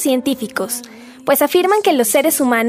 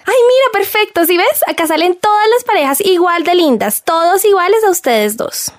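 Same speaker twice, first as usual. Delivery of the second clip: much higher and louder delight; gushing; 6 semitones higher, 4 dB louder than usual. Acted. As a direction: gush over the cute couples. Friend gushes over gift page. (entusiasmo exagerado, más agudo y fuerte)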